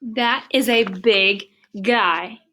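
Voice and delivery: slow awed elephant. Acted. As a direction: stretch out the big. Elephant reports to pig.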